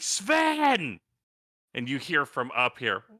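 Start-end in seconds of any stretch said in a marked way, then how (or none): 0.0-1.0 put-on, very loud, very high, long drawn-out holler. Voicing a character calling up a mine shaft: yelling very loudly. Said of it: "he just is going to yell very loudly".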